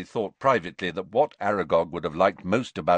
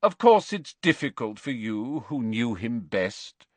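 Slughorn voice; 2 semitones higher than usual. Acted.

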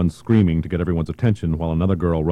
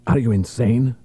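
snarled; 5 semitones higher than usual. Acted. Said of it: "Barone snarled".

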